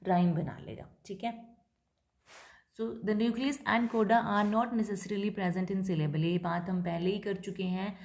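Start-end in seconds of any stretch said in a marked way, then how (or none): 2.8-6.2 very slow, measured reading of the rule; slow dictation. Shown as a demonstration. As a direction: read the rule slowly for notes. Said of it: "teacher dictates English line". (धीमे-धीमे नियम पढ़ना)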